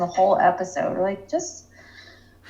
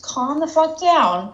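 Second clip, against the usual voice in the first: laughing mock scold; 7 semitones higher, slower than usual. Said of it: "I'm like".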